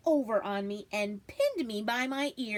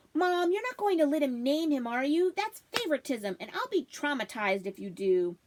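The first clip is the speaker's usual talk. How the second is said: whiny protest; 4 semitones higher, 3 dB louder than usual. Acted. Child protesting to mother.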